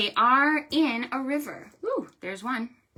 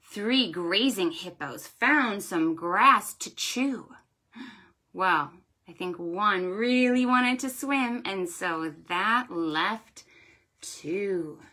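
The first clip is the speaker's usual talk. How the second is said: storytime rhyme. Shown as a demonstration. Librarian reciting a counting rhyme to children. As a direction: read it like a picture-book rhyme.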